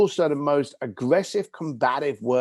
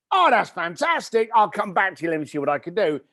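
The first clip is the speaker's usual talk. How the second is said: mock enthusiasm; 5 semitones higher, 3 dB louder than usual. Brushing off the caller.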